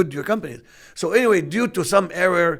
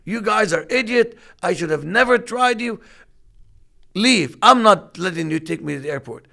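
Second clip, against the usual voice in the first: retold yelling. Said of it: "And he was yelling".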